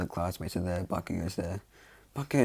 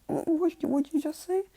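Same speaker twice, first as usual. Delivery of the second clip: high, louder stammered question; stunned disbelief; 5 dB louder than usual. Acted. Mother whipping round at her son's words, stunned. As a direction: stumble over the words in astonishment.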